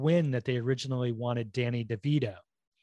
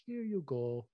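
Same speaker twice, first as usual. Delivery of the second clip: put-on French giant accent; 8 dB quieter than usual. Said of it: "just be like".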